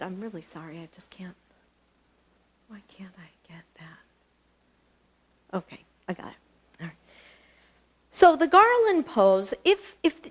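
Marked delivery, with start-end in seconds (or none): 0.0-7.0 hushed frustrated aside; whispered apology. Real, not acted. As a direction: whisper off-mic while struggling with the screen. Whispered aside fixing the camera.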